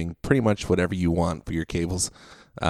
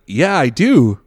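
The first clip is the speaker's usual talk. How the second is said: higher, emphatic comeback; mock exasperated retort; 5 semitones higher, 4 dB louder, slower than usual. Dude answering the dad's protest, imitated exasperated retort. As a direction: answer back as a fed-up moviegoer. Heckler retorting to dad, retold.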